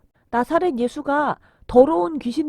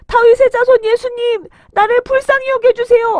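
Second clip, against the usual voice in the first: louder pleading shout; 11 semitones higher, 9 dB louder than usual. A narrator's reading. Blind beggar calls louder to Jesus, pleading shout. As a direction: shout high and at full force. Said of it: "크게 소리를 질렀어요".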